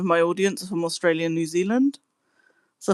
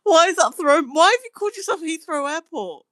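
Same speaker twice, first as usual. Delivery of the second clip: higher voice, words pushed through giggles; laughing in disbelief; 9 semitones higher than usual. Real, not acted. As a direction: talk while barely holding back a laugh. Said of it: "I can't stop laughing at it".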